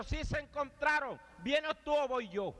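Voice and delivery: high, slow taunting dare; high slow mock threat; slow challenge. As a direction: dare him slowly, high. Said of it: "dice el otro".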